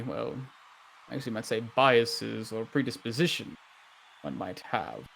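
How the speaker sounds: softly spoken, careful mayor with hesitations; diplomatic mayor. Acted. Plays the mayor replying.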